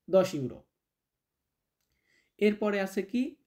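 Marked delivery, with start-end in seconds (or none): none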